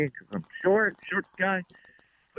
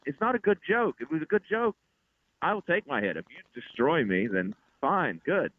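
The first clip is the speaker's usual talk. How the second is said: higher, exasperated lecture to the crowd; retold rant; 6 semitones higher than usual. Comic to laughing crowd at bad jokes, high exasperated scolding. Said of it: "I just went off".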